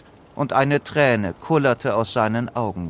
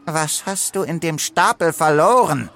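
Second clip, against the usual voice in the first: higher, snarling reproach; rasping, scolding crocodile; 5 semitones higher than usual. A narrator's reading. Angry crocodile confronts Leo, rasping scold. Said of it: "schimpfte ein Krokodil mit schnarrender Stimme".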